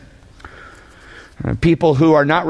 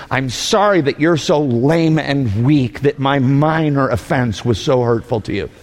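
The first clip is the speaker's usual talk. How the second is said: mock contemptuous translation. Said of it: "to be translated".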